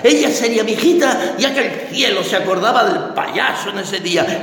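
usual speaking voice

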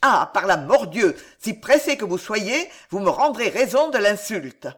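a loud opening oath, then a hot challenge; yelling challenge. Acted. D'Apremont to the old soldier who pushed the table, yelling. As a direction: hurl the insult back at him. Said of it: "et hurlait".

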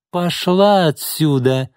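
high, slow, stressing пошла; vicious repeat. A narrator's reading. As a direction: repeat it with venom. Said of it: "злобно повторила Изольда". (злобно, медленно)

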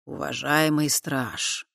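very slow, polite address; courteous address. Acted. Fat man courteously addressing the guard, slow. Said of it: "любезно обратился к нему толстяк".

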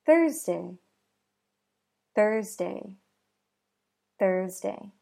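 "Thursday" with an airy unvoiced th; "Thursday" with the tongue between the teeth; "Thursday" with a crisp breathy th; unvoiced TH demo. Shown as a demonstration. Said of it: "Next word".

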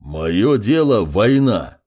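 МОЁ ДЕЛО ВОЙНА pressed out slowly, word by word; "Моё дело война" slow and firmly weighted; insistent, with pressure. A narrator's reading. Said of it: "с нажимом повторил северянин".

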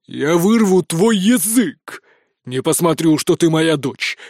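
slow, menacing prince's shout; furious prince shouting at his daughter. A narrator's reading. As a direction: threaten her slowly, every word a blow. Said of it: "закричал принц".

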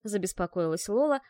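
ordinary delivery, nothing marked

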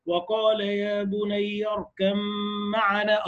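"اركب معنا" with the b merged into the m, "اركمّعنا"; idgham recitation. Shown as a demonstration. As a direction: chant slowly, fold the ba into the mim. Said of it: "أدغمت الباء". (إدغام الباء في الميم)

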